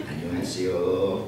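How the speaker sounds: a playful Korean hello, drawn out and laughing; laughing greeting. Retold or imitated. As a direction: greet in Korean, stretched and chuckling. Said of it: "gitu ya".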